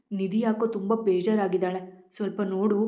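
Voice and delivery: ordinary delivery, nothing marked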